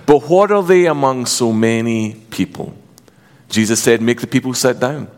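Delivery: measured Bible reading aloud; scripture reading. Acted. Pastor reading scripture aloud to church, measured. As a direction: read the Gospel to the congregation.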